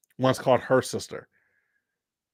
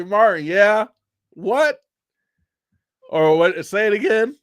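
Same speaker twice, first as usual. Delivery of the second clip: higher, louder auntie challenge; pitched-up imitation of a scolding auntie; mock scolding; 7 semitones higher, 6 dB louder than usual. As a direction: act out an auntie demanding a repeat.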